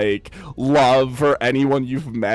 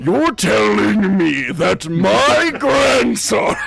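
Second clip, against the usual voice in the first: slow, loud, raised indignant voice; indignant grandpa; 5 semitones higher, 3 dB louder, slower than usual. Retold or imitated. Old god discovering his grandson's magic, slow loud outrage. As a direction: drag it out louder, outraged. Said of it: "he's going".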